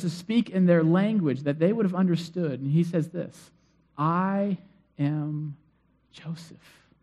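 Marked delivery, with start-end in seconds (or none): 4.0-6.9 a soft, breaking whisper on the name; hushed reveal. Retold or imitated. Joseph revealing himself to his brothers, in a whisper. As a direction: let the name barely come out.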